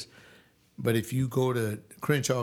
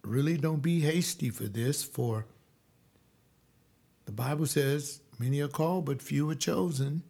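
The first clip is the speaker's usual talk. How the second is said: lightly voiced gentle evangelical preacher; 3 semitones higher than usual. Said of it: "Let me tell you the way it sounded".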